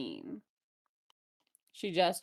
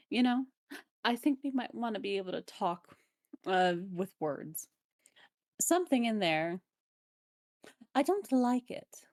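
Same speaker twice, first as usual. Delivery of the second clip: goblin voice. Acted. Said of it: "Is that the goblin voice?".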